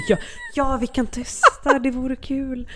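hammed-up, high-pitched willingness; mock-eager agreement. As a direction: pretend to be keen to try it. Mock keen acceptance of absurd offer.

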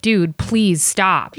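drawn-out, slow plea to stop; pleading. Retold or imitated. Comics telling a chatty audience member to quit, slow pleading. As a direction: imitate exasperated comics, stretching each word slowly. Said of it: "The comics were like".

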